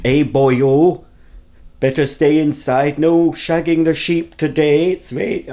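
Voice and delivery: badly faked sing-song Welsh accent. Alexa giving advice in Welsh style, badly faked Welsh accent. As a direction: have a clumsy go at comic Welsh. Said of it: "Welsh accent".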